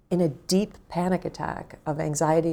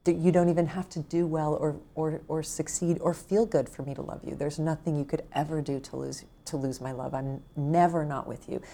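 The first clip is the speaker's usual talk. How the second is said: reassuring self-talk. Shown as a demonstration. Saying to her younger self what she longed to hear, tender. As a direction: comfort a frightened younger self. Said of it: "all you have to say to yourself".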